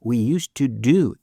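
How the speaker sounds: usual speaking voice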